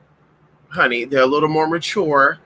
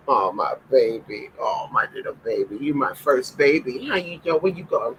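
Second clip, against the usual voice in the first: cooing to the dog; 4 semitones lower, 5 dB quieter than usual. Real, not acted.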